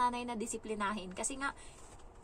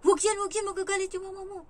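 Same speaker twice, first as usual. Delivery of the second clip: high-pitched, urgent pleading; mock frantic warning; 10 semitones higher, 7 dB louder, faster than usual. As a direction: act out a worried warning, starting loud. Acts out warning the child. (mataas ang boses na kunwaring babala)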